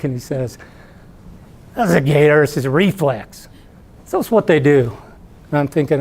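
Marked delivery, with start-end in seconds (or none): 1.7-5.0 a hint of a Florida redneck explaining. Bubba explains away the gator's reflex, mild Florida redneck impression. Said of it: "talking like a total ... Florida redneck".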